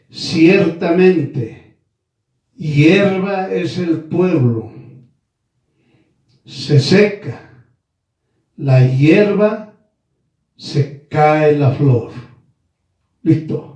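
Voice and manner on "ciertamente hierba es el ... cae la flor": slow, deliberate sermon reading; solemn slow scripture delivery; slow preaching. Acted. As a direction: drag each phrase like a preacher.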